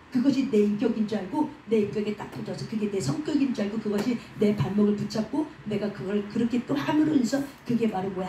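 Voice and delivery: ordinary talk, nothing marked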